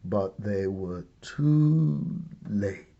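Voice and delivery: whisper. A narrator's reading. Dramatic reveal after dinosaurs burst in.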